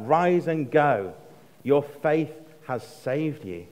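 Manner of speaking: slow, measured words of Jesus; slow, solemn blessing; slow solemn quote. Retold or imitated. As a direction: lay each word down slowly. Reread as saved.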